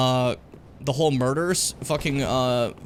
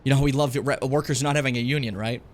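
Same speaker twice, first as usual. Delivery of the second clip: sarcastic; 3 semitones lower than usual. Acted. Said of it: "This is a joke".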